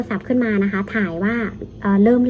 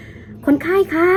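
a raised, high call for a patient; nurse calling out; 8 semitones higher, much slower than usual. Retold or imitated. Nurse calling a deaf elderly patient, raised high call. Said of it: "เขาจะพูดแบบ".

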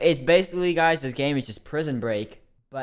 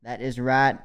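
put-on Southern accent; 2 semitones higher than usual. A YouTuber spinning his prisoner backstory in a put-on Southern accent. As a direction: lay on a put-on Southern accent, folksy and grand. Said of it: "I was doing a Southern accent".

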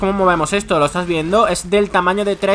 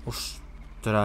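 whispered, much softer gasp of awe; awed whisper; 11 semitones lower, 15 dB quieter than usual. Real, not acted. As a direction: breathe it out in wonder. Asombro en voz baja. (susurro asombrado)

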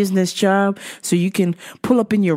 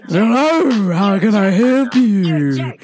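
smooth pickup line; slower than usual. Retold or imitated. Flirting with the lady in the dairy section, slow smooth charm. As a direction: lay on the charm. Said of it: "I was like".

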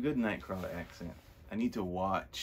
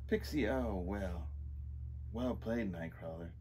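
lightly put-on Scottish accent. Villain owning up to a late arrival, Scottish accent. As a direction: speak in an unsure Scottish brogue. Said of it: "We're doing the Scottish accent again".

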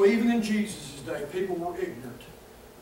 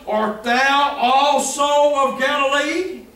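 arrogant scorn; 3 dB louder than usual. Retold or imitated. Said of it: "Again, in their arrogance".

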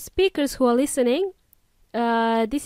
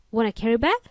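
imitating Australian cashier, questioning lift; mock Australian checkout question; awful Australian accent; much faster than usual. Shown as a demonstration. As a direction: put on a bad Australian accent. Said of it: "my awful Australian accent".

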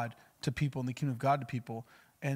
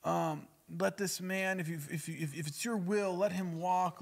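mock pleading prayer; 5 semitones higher, slower than usual. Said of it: "They didn't say".

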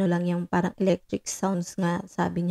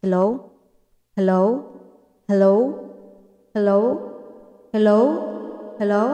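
echo effect; 5 dB louder than usual. Shown as a demonstration. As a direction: separate hellos ringing with echo. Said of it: "lalagyan natin echo". (pa-hello na may malakas na echo)

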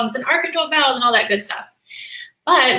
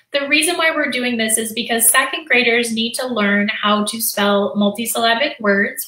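usual speaking voice

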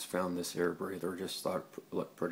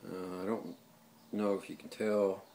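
sniffly, blocked-nose voice; stuffy nose from a cold. Real, not acted. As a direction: talk through a head cold with a stuffy nose. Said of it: "I'm getting over a bad cold".

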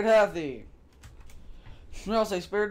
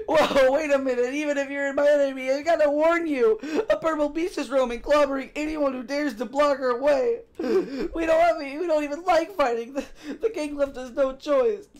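high pleading voice; 5 semitones higher than usual. Acted. Character voice high, upset.

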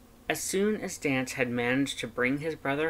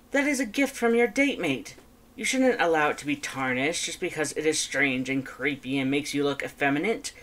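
Papyrus voice; 2 semitones higher than usual. Acted.

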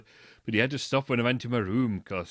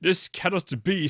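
crisp voice; 6 semitones higher, 3 dB louder than usual. Acted. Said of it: "Snap said in a crisp voice".

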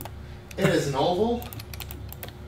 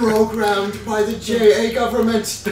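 laughing; 6 semitones higher, 7 dB louder than usual. Real, not acted. Joking through laughter.

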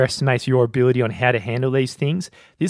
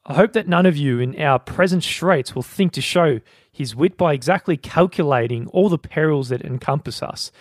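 mock general's speech; 3 semitones higher than usual. Podcast host reading Demosthenes to his soldiers, mock rousing oration. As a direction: play an ancient general rousing his men, half-serious. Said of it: "I don't know what voice accent we're going with".

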